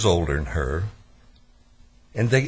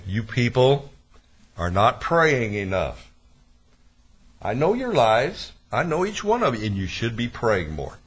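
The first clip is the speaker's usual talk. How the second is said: mock guilt trip; 2 semitones higher than usual. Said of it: "I can put everybody on a guilt trip".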